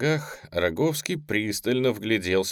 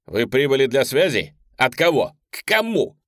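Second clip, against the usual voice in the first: sharp demand; 4 semitones higher, 6 dB louder than usual. Acted. Officer springs up demanding answers.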